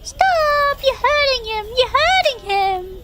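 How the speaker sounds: high, pleading cries for it to stop; distressed pleading. Real, not acted. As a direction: beg them to stop, half-wailing. Pleading with the video, pitch high.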